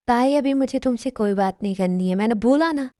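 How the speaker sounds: mildly irritated brush-off; acted annoyed rebuke; scolding. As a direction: firmly shut her down. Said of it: "तुम मुझे डांट कैसे सकते हो".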